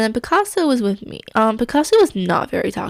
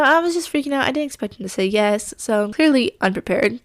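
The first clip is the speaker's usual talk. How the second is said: usual speaking voice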